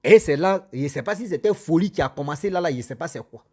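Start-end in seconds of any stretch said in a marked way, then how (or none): none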